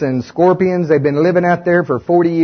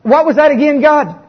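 higher, puzzled asking voice; bewildered Israelites; 8 semitones higher than usual. Acted. Israelites at the flooded river asking God to repeat, higher and puzzled. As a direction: play it dumbfounded, asking again.

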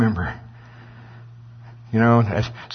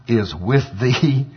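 drawn-out; much slower than usual. Acted. God's words delivered with weight.

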